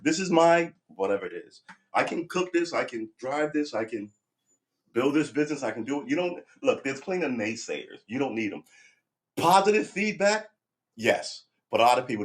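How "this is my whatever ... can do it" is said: much higher and louder, defiant shouting back; pitched-up, shouted mock defiance; defiant comeback. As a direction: fire back at the doubters at full volume. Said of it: "if they keep going and go".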